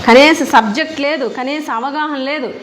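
loud, slow, contemptuous put-down; indignant scolding. Real, not acted. Minister scolding the rival for knowing nothing, loud and slow. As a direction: slam her ignorance word by word.

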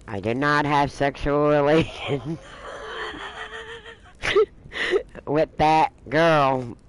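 slow, drawn-out presidential denial; a light take on Clinton's famous denial; Clinton impression. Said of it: "he used the same line".

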